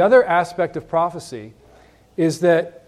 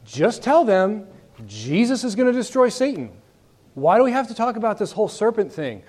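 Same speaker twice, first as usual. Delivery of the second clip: higher-pitched, pretend impatient whys; mock exasperation; 3 semitones higher than usual. Teacher voicing a puzzled objector to the class, mock exasperated. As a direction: play the frustrated skeptic.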